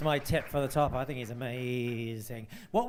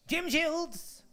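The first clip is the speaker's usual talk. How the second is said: high, thrilled cry of a name; excited call-out; 14 semitones higher than usual. Real, not acted. Host calls the next contestant forward, excited. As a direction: call him up with real glee.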